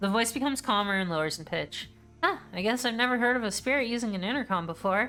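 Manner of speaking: plain reading voice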